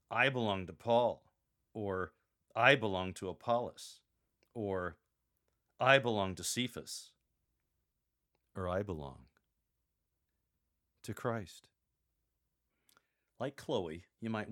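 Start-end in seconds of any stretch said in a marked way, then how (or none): 0.1-7.1 louder mocking voice, stressing I each time. Shown as a demonstration. Paul ridiculing the Corinthians' factions, in a mocking tone. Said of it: "should be said with a mocking tone". 8.6-11.7 sincere, with a pause before to Christ; earnest and unhurried, stress Christ; serious and sincere. Shown as a demonstration. Paul naming true allegiance to the Corinthians, sincerely. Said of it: "in a very serious and sincere tone".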